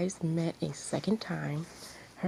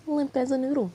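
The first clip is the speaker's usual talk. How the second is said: higher and louder, scornful; scornful punchline; 8 semitones higher, 4 dB louder than usual. Acted. Aino mocking Rin to the crowd, scornful. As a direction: land the insult with relish.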